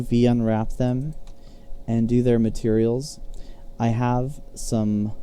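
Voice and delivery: talking with a slight lisp after dental work. Real, not acted. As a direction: mouth still numb from the dentist, lisping a little. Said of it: "sorry if I have kind of a lisp or I'm, I'm talking weird. I just had dental work done".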